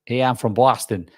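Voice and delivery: Scot's attempt at New York; New York accent. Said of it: "people from New York that say that".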